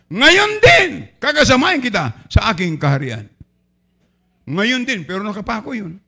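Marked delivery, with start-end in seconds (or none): 0.1-3.3 Jesus' promise. Acted. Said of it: "Pero sabi ng Panginoon".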